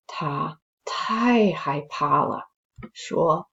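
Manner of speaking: slow, suspenseful storytelling voice; story narration. A narrator's reading. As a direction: build the creepy tension slowly. Reads a spooky story aloud.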